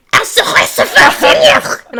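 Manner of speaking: high, loud shouted mock German; angry German kids. Cousin mimicking children at her game, angry high German shouting. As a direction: imitate little kids screaming angry German. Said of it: "the most angry that you can".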